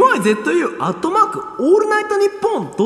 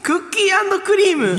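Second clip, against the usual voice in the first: losing steam; 3 semitones higher than usual. Pretend. Performer lists flavours after screaming, energy quickly stalling. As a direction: shout fading toward ordinary announcing. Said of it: "いや、失速早いだろ".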